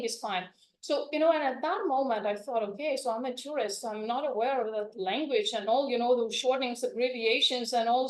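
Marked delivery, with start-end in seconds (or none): none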